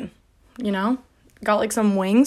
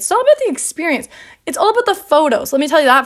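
emphatic rant; 4 semitones higher, 4 dB louder, faster than usual. Real, not acted. Ranting about prom.

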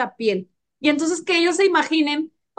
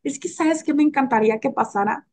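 sensual voice. Shown as a demonstration. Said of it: "con un tono más erótico, más sensual".

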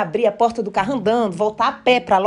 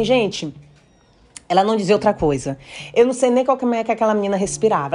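usual speaking voice

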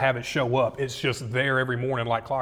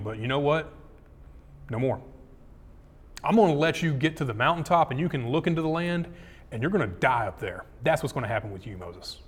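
a quiet, final verdict from God; stern God; 5 dB quieter than usual. Acted. God telling Moses he will die, in a soft grave rebuke.

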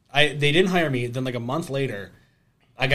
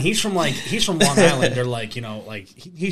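normal talking voice

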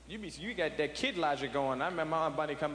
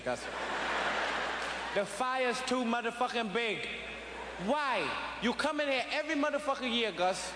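put-on drunk father ranting; 4 semitones higher than usual. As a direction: rant like a drunk dad claiming his house. Drunk dad confronting Gus.

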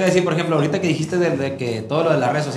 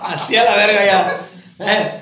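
high laugh, words through laughter; 4 semitones higher, slower than usual. Real, not acted. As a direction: laugh while speaking. Laughing at the broken foot joke.

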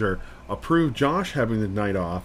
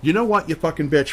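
mock yell; 7 semitones higher, 5 dB louder than usual. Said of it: "starts hollering and screaming at me".

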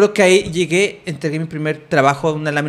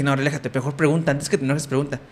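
calming himself; 3 semitones lower, 5 dB quieter than usual. Retold or imitated. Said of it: "pero dije".

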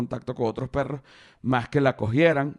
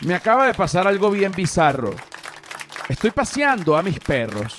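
reading the tweet again, higher and louder; dramatic tweet reading; 5 semitones higher, 3 dB louder than usual. Shown as a demonstration. Comedian rereads his tweet over reflective music, solemnly. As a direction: restart the tweet with solemn weight. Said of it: "para no desviarme del tema".

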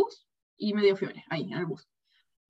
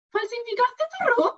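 much higher, slow mock official; officer's voice; 12 semitones higher, slower than usual. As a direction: imitate the stern officer, pitched up. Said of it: "¿Y tenía esa voz?". (imitando a la funcionaria, aguda y lenta)

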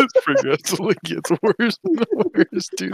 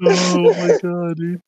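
laughing; slower than usual. Real, not acted. Wheezing after a laugh fit.

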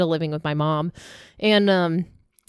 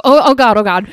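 imitated alarm; 2 semitones higher, 8 dB louder than usual. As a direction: mimic a friend's flustered "oh God". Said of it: "I hear Taylor go".

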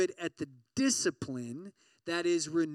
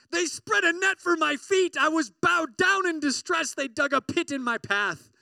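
higher, louder anguished reading; distressed cry; 9 semitones higher, 7 dB louder than usual. Acted. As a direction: cry out the trouble in the verse. Dramatic reading of psalm distress.

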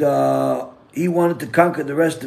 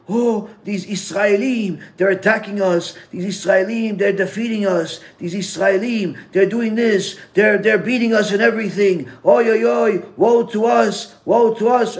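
higher, hammed-up wailing news voice; mock lament; 6 semitones higher than usual. Joke newscaster bewailing the Israelim beating them, mock wailing. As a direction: play the enemy newscaster bemoaning defeat, Oy oy oy.

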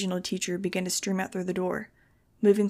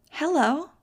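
put-on cheery girl; 7 semitones higher, 4 dB louder than usual. A narrator's reading. Cheery brainwashed girl greets Max.

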